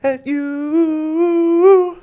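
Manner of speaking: high, drawn-out announcer call; calling from far away. Acted. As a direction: boom out the intro like a ring announcer. Announcing guest over walk-up music.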